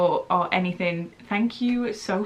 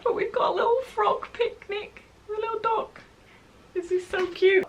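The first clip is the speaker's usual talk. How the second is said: gushing; 14 semitones higher than usual. Real, not acted. Gushing over cute stickers.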